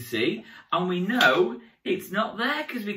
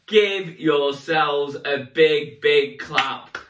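slow, louder big clap call; cheering host; 3 semitones lower, 5 dB louder, much slower than usual. Acted. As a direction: hype the crowd to clap. Rallying applause.

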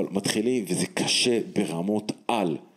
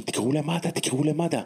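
retold crowd shout; 8 semitones higher than usual. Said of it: "וכולם צועקים".

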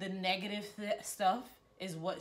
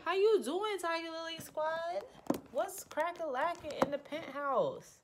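high squeaky greeting; 10 semitones higher than usual. Pretend. Vlogger greets her Tiger Lily Squad in a squeaky high voice.

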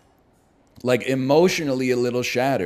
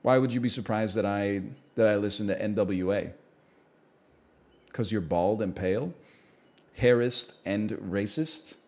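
a light imitation of Obama's deliberate speech; Obama impression; 4 semitones lower, 5 dB quieter than usual. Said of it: "I was doing my Obama impression still".

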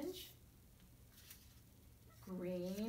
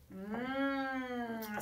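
frog voice. Acted. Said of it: "said the frog".

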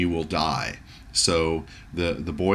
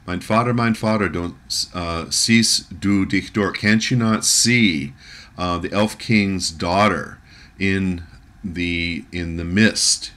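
put-on panicked boy; 3 dB louder than usual. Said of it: "this really freaks the boy out".

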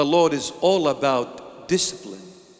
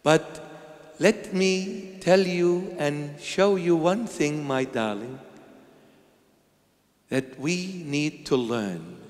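gentle parent. Shown as a demonstration. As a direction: reassure the child tenderly.

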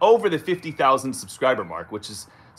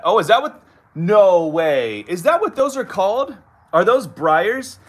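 high, amazed questions; genuinely taken aback; surprised; 7 semitones higher, 7 dB louder than usual. Real, not acted. Surprised by comment on briars.

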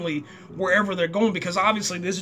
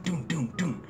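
imitated door knocks; 6 dB quieter than usual. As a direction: mimic heavy knocks with your voice. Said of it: "there's this knock on this door".

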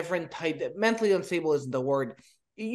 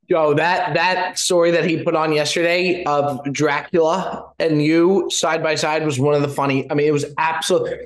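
echoing tunnel; 7 dB louder than usual. Real, not acted. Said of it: "Bob, you sound like you're in a tunnel".

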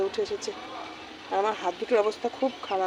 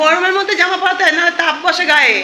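laughing; 8 semitones higher, 9 dB louder than usual. Real, not acted. Laughing at neighbour's advice.

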